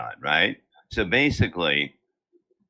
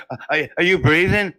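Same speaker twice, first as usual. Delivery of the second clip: mock worried wife; 7 semitones higher, 5 dB louder than usual. Wife's worried question, voiced mockingly.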